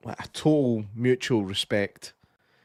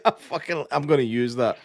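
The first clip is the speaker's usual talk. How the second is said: excited outburst; 4 semitones higher than usual. Retold or imitated. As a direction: burst out in delight at the line. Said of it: "I was like".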